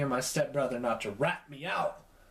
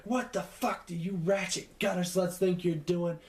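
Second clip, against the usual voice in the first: retold screaming; 3 semitones higher than usual. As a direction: imitate mom's furious tirade, not full volume. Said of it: "screaming her lungs out".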